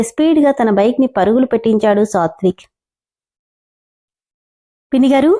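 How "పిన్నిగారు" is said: calling out. Acted. Calling neighbour at the door.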